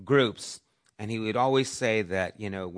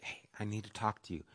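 soft whisper-like; 8 dB quieter, faster than usual. Shown as a demonstration. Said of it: "someone's whispering to you".

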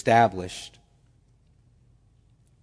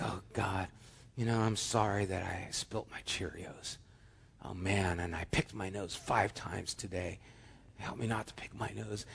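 put-on small child praying; 6 semitones lower, 15 dB quieter than usual. Four-year-old's bedtime prayer voiced.

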